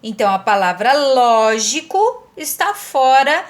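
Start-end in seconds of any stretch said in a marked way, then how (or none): 0.9-2.3 "lógico" with "ló" drawn out and punched; slow, emphatic "LÓ-gico"; first-syllable stress. Shown as a demonstration. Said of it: "é a primeira sílaba que é tônica".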